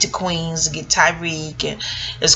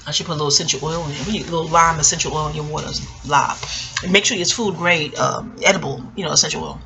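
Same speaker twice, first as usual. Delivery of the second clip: lower, fast ad-read tone; commercial voice; 4 semitones lower, faster than usual. Pretend. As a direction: pitch it like an ad. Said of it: "why am I doing a commercial".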